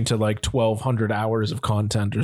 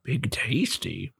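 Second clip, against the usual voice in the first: eating while talking; talking through a peanut; mouth full; 6 dB quieter, much slower than usual. Real, not acted. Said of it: "I'm eating a peanut".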